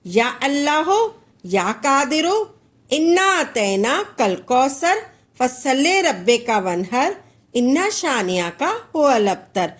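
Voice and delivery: measured devotional recitation, each phrase rising at the end; reciting prayer. Shown as a demonstration. Teacher demonstrates the first of ten recitations, in a devotional chant. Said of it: "आपने ऐसे पढ़ना है".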